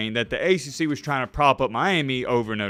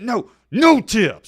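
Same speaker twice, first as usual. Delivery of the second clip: slow, drawn-out, higher no, no tip; slow emphatic no tip; 8 semitones higher, 7 dB louder, much slower than usual. Real, not acted. Host insisting on no tip, slow and emphatic. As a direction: lean on every word like a vow. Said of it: "I'm just so passionate about that".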